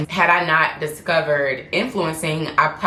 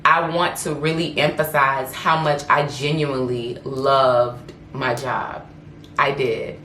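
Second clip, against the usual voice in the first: emotional; 2 semitones lower than usual. Real, not acted. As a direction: overcome with feeling, drawing out loved my job. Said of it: "I'm getting so emotional right now".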